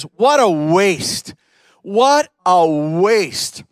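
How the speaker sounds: slow scornful what a waste; indignant Judas. Retold or imitated. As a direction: drag out the complaint, mildly outraged. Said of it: "he's angry".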